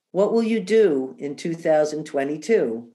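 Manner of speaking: measured recital of a verse; gentle read-aloud cadence with a falling close; poem reading. Real, not acted. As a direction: read it aloud like a New Year's card verse.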